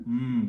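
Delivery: low, soft "mm"; imitated audience murmur. Poet recalls audiences murmuring too early, imitated murmur. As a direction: mimic a listener's premature murmur softly. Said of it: "they think is the end".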